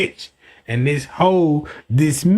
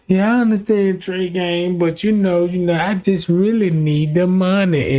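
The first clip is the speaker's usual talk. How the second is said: seductive woman. Retold or imitated. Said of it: "trying to seduce me".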